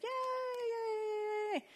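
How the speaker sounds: put-on squeaky, very high kid cheering; excited toddler. Toddler cheering about the Halloween trip, squeaky high. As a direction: cheer like a thrilled little boy. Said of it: "Got him all excited".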